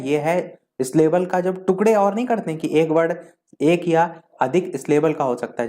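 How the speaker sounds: ordinary talk, nothing marked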